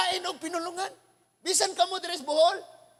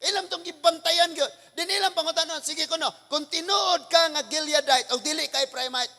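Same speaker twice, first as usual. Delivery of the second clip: ordinary talk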